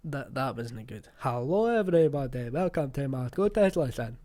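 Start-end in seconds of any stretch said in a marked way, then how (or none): 1.2-4.2 slow, overdone fake Scottish, louder; drawn-out fake Scottish. Mocking the English lassie's slow fake Scottish accent. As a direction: stretch every word like a bad Scottish impression. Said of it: "It was too slow, it was too drawn out".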